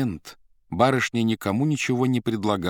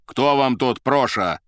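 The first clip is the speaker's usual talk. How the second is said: slow, haughty question, a touch louder; 5 semitones higher, 6 dB louder, slower than usual. A narrator's reading. Talking suit to the secretary, haughty and slow. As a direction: look down on her from the armchair. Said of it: "осведомился надменно".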